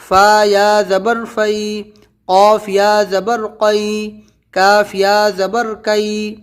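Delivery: slow, measured letter-by-letter chant; spelling recitation. Shown as a demonstration. Teacher models the spelling drill for students, slow spelling recitation. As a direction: draw out each letter name, then the joined syllable. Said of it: "یہ ہو گئے اس کے ہجے".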